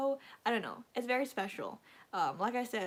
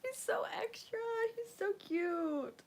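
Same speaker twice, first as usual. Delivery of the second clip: laughing through tears; 12 semitones higher, 6 dB louder than usual. Real, not acted. Fan overwhelmed by idol clip.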